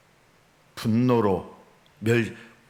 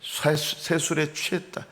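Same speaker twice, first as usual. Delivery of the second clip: lightly acted contempt, higher and slower; mocking scorn; 5 semitones higher than usual. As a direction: imitate scoffers sneering at drunkards. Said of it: "조롱과 멸시가 섞인 말을".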